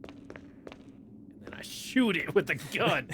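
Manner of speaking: slow, breathy whisper. Pretend. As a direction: whisper it slowly like a secret. Playful aside while sneaking past.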